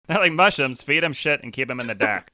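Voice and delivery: bad Boston accent, hammed up; imitating a Boston accent, clumsy. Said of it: "That's, that's your Boston accent".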